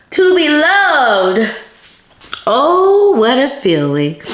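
tearful awe. Real, not acted. Moved to tears by card.

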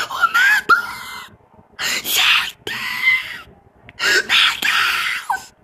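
shrieking in real terror; high screams of panic; terrified screaming. Real, not acted. Attacked by mob in game.

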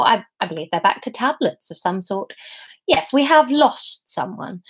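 lightly voiced God, lifted and emphatic; God speaking. God explains the outcome to the devil, emphatic speech. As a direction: pronounce it with measured conviction, pitch lifted.

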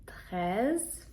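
TREIZE with an open E vowel. Shown as a demonstration. Teacher explaining EI, TREIZE with open E. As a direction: say TREIZE as "trez", rising at the end. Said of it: "Е, І читається як Е".

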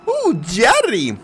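high, slow drawn-out ooh; imitating his voice. Streamer mimicking a chatter's way of greeting Jerry, high drawn-out croon. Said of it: "he talks like this".

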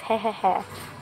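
brief voiced he-he-he laugh; short chuckle. Commander chuckles at the guest's question, short he-he-he laugh. Character is told not to laugh.

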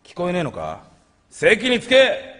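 teacher role. Acted. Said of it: "先生役をやって。".

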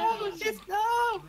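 very high, loud outcry; real dismayed yell. Real, not acted. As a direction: yelp as it all goes wrong. Sudden mishap in the game.

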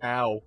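token "ow" of pain; unconvincing yelp for bones being ripped out; half-hearted pain noise. Shown as a demonstration. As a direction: give a feeble attempt at agony. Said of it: "make a noise like the bones are being ripped out".

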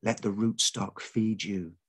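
slow, lulling mother's voice; soothing motherly. Acted. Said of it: "like a mother trying to send a baby to sleep".

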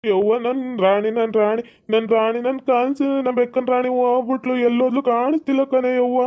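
slow, drawn-out mock crying; hammed-up slow lament; acted tearful wailing. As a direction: whine it out slowly, as if weeping for a lost pet. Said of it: "ಅದಕ್ಕೆ ಬೇಜಾರಾಗಿ ಅಳ್ತವ್ನಿ".

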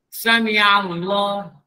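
Sami Allah drawn out, ain clear; slow correct recitation. Shown as a demonstration. Ustaz answering the class, slow recitation. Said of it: "Apa Sami Allah?".

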